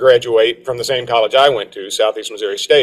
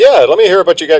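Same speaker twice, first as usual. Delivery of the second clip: put-on flirty voice, higher, louder, faster; 6 semitones higher, 4 dB louder than usual. Retelling how he answers a waitress offering the special, re-enacting a flirty reply. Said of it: "she says I'm flirting with waitresses".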